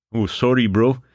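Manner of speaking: hammed-up, high Canadian voice; bad Canadian accent. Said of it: "with my bad accent".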